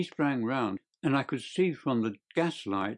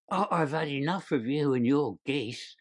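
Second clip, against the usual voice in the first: mildly raised, angry salesman's voice; understated shout; 3 semitones higher than usual. A narrator's reading. Salesman sending off a pesterer, understated angry shout. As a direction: scold as if fed up, without full volume. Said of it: "he shouted".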